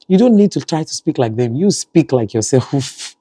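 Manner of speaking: retold motherly telling-off, slowing at the end; correcting a child. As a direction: correct the child insistently, slowing on the last words. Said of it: "I'm trying to correct her".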